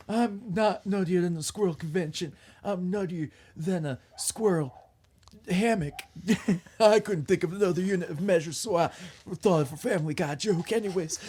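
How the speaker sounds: playful fake Southern character voice; put-on Southern accent. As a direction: keep up a mock Southern accent. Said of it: "I'm still doing this in a Southern accent".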